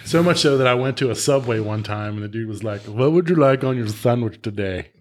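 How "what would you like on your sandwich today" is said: lightly put-on Indian accent; a sandwich clerk with an Indian accent; imitated Indian accent. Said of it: "talking with an Indian accent".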